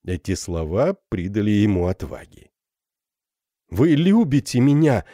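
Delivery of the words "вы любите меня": higher and louder, thrilled; rapturous exclamation. Acted. Captain hears her confession, rapturous. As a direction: burst out in delight. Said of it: "восторженно воскликнул он".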